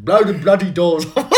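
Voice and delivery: hushed, hoarse mock Cockney catchphrase; Michael Caine. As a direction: do a whispery Cockney film quote, close to laughing. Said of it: "Can you guys do a Michael Caine?".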